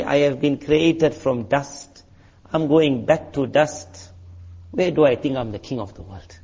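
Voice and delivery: humble. Pretend. Humble words said lying down.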